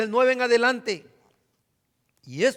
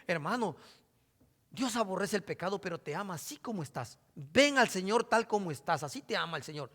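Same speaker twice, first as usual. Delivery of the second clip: softer, sugary imitation of a lenient preacher; mocking soft preacher; 3 semitones lower, 6 dB quieter than usual. Preacher mocking other preachers, in a softer sweet tone. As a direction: coo it like a preacher who excuses sin. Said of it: "muchos hermanos predican".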